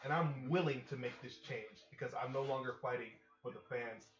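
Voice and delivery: wrestling promo. Acted. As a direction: growl the challenge at the crowd. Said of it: "I love doing announcer voices".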